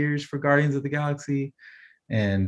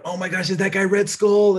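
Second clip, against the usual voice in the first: imitating the girls' excited squeal, pitched higher; excited kids; 9 semitones higher, 4 dB louder than usual. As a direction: playfully mimic the kids getting hyped. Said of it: "They're like".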